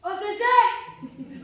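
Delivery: slow booming shout; giant voice. Acted. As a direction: boom it out like a giant. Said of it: "his giant voice".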